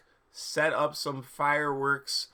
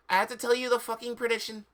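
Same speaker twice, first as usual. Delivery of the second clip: mock professor; 7 semitones higher, faster than usual. Reading professor's quote aloud.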